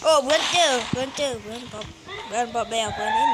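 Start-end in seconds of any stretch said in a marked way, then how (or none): 2.3-3.3 shouting. Real, not acted. Calling out to teammates.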